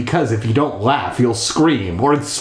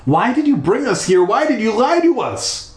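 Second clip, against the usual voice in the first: put-on high girl voice; 10 semitones higher than usual. Voicing Stephanie's demands.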